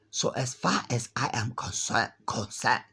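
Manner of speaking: practicing a shaky put-on African accent, stressing far; trying out a fake African accent on as far as I am concerned. Shown as a demonstration. Vlogger rehearsing a line in a fake African accent. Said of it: "I've gotta work on my fake African accent".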